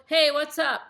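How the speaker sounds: loud, high, casual hey; punchy, casual phone greeting; talking like son. Shown as a demonstration. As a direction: greet him in his own breezy style. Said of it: "I talk like him".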